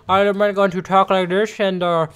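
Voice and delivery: mock rambling lecture voice; lightly voiced confusing teacher; imitating the teacher. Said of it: "she talks like".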